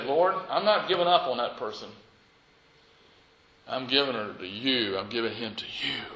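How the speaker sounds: soft, hushed surrender; kneeling prayer. Retold or imitated. Pastor retells his prayer for a struggling person, soft. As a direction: hand it over quietly.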